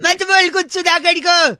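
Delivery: high, slow, drawn-out protest; mock-indignant warning. Prank caller defending his friend from insults, mock indignant. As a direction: warn him off in put-on outrage.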